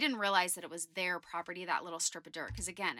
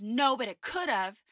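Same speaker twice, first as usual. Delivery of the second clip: a clipped mock of the mad neighbor, louder; curt angry retort; 4 semitones higher, 7 dB louder than usual. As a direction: snap back, lightly acted. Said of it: "he's agitated, he's mad".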